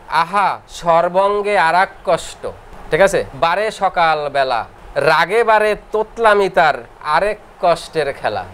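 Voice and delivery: drawn-out chanted rhyme, every word stretched; slow verse recitation. Acted. Teacher chanting a rhyme to students, slow and sing-song. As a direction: recite it like a memory verse for the class.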